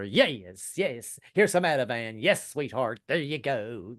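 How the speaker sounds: lightly voiced preacher-healer; mock faith healer. Husband healing his guilty wife, mock faith-healer voice. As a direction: play at healing her with drawn-out soothing words. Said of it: "I can heal her".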